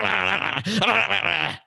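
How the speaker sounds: wordless snapping gibberish noise; high nonsense attack noise; imitated venomous attack. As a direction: make a mock snake-attack babble. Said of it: "like a snake just fucking bit you".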